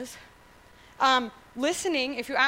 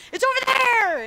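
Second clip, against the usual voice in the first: high and loud, pointing far off; calling out; 12 semitones higher, 8 dB louder than usual. Acted. Parent pointing something out to a small kid, calling out. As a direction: call it out across the distance.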